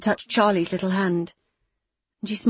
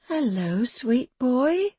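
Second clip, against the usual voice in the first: forced sweetness; 5 semitones higher, much slower than usual. Acted. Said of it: "squeezing out a smile".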